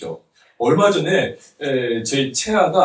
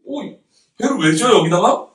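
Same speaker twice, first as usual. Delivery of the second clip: imitating puzzled bystanders, pitched up; questioning onlookers; 5 semitones higher, 3 dB louder than usual. Preacher voices people asking Noah about the boat, puzzled questioning. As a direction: ask it higher, as a baffled passerby. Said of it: "막 물어보는 거예요".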